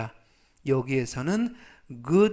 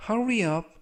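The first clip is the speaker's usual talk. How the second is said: urgent call; 5 semitones higher, 3 dB louder, slower than usual. Acted. Urging someone in example sentence.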